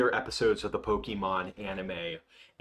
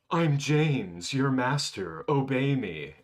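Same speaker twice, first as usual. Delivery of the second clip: higher, forceful impression of a cartoon villain giving orders; James; 4 semitones higher, 4 dB louder, slower than usual. James commands the furious Gyarados, mock-commanding. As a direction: imitate a cartoon character grandly commanding a monster. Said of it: "James just leans forward, and he's like".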